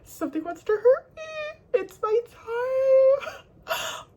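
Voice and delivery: mock terrified cry of her anxious mind; panicked inner voice. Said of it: "I'm like".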